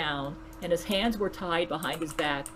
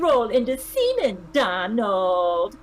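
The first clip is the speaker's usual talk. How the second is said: commanding; 3 semitones higher, 3 dB louder, much slower than usual. A narrator's reading. Melania orders Donald.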